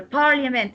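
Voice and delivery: "Parliament" with weight on PAR; stress on first syllable. Shown as a demonstration. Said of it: "stress will be on the first part".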